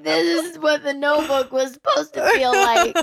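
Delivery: half laughing, half crying. Real, not acted. Host gushing over the romance, laugh-crying. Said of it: "And I'm like".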